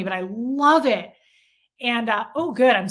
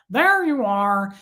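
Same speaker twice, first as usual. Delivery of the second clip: lightly imitated movie voice, drawn out; slow, stretched line as a mild impression; Ted Levine; 4 dB louder, slower than usual. Fan quoting a favorite actor's voice, lightly imitated. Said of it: "But his voice, Ted Levine, when he goes".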